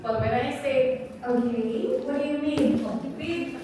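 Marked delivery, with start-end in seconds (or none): 1.2-2.8 mildly puzzled question; a bit curious. Shown as a demonstration. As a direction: ask with slight curiosity, not quite following.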